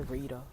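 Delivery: "Sharita" with a D in place of the T; hood-accented "Sharita", T voiced to a D. Shown as a demonstration. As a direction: say "Sharita" as if spelled "Shareeda". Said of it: "with a D".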